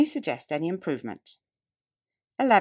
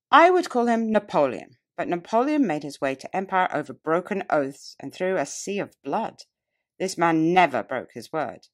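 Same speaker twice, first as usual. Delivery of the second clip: grand oration. Acted. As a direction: build each phrase like a speech to a packed hall. Declaims historic oration.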